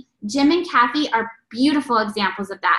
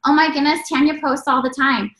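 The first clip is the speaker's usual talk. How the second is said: mildly mocking imitation, pitched up; making fun; 4 semitones higher than usual. Critics gossiping about her kitchen videos, mildly making fun. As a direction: lightly mimic people poking fun. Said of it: "people making fun of me".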